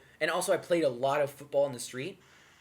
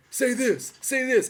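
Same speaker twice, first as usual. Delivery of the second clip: higher, louder coaxing; pushy locals; 9 semitones higher, 5 dB louder, slower than usual. Retold or imitated. Locals urging the new kid to repeat a curse word, coaxing. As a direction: tease the newcomer into saying it.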